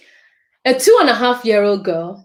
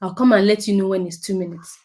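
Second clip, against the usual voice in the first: calm reassuring. Acted. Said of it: "You say".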